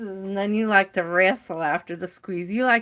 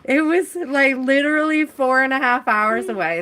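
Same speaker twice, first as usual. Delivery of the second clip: exasperated; 5 semitones higher, 5 dB louder than usual. Real, not acted. Venting about failed delivery.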